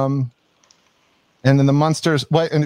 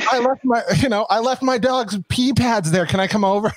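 mock ex voice; 9 semitones higher than usual. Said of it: "mock ex asking to come over".

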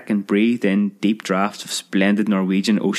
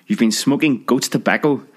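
cry; 3 semitones higher than usual. Acted. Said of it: "cried the small sister".

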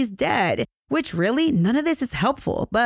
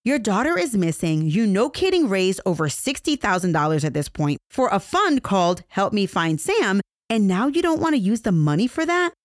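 shocked disbelief. Retold or imitated. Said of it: "The police were shocked".

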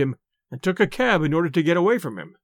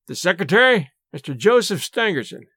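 grave. Acted. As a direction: weigh "Joseph Stangerson" solemnly before the bad news. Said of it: "said Lestrade gravely".

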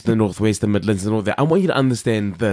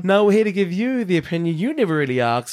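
quick, higher host patter; podcast intro; 4 semitones higher, faster than usual. Shown as a demonstration. Host reciting the show's intro line, quick intro delivery. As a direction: rattle off the show's catchphrase. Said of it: "Let's add it into our intro".

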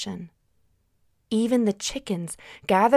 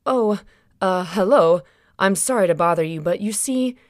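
nervous husband; 4 dB louder than usual. Acted. Joseph asking at the door.

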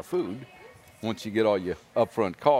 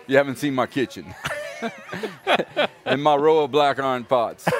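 laughing. Real, not acted. Laughing while telling story.

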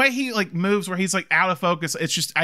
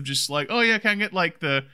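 higher, hesitant, fumbling phone voice; imitating a sheepish guy asking about Playboy; awkward phone order; 5 semitones higher than usual. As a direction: stammer the order like an embarrassed caller. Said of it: "the kind of awkwardness".

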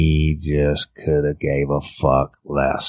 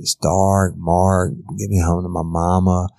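imitating Caitlin; 3 semitones higher than usual. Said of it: "a representation of Caitlin's voice begging".

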